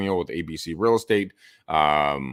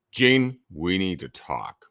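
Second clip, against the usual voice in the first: serious down tone; slower than usual. Shown as a demonstration. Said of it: "tonality, up and down".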